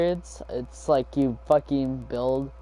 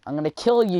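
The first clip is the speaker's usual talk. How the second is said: high, loud retold threat; mock shout, pitched up; imitated yell; 6 semitones higher, 7 dB louder, faster than usual. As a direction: mimic a classmate yelling at a game. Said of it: "he yelled that out loud".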